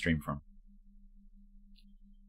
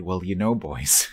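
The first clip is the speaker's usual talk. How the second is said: put-on Welsh accent; 4 dB louder, slower than usual. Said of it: "in a very thick Welsh accent".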